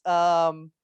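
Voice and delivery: usual speaking voice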